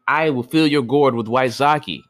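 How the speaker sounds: a strange sea creature generously offering sake; creature's offer. A narrator's reading. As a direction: creature promising sake to the boy. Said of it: "replied one of the creatures".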